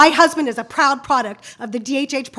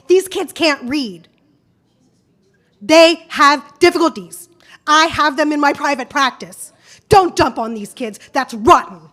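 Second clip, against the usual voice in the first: louder, pleading indignation; impassioned; 2 semitones higher, 4 dB louder than usual. Real, not acted. Angry parent addressing school board.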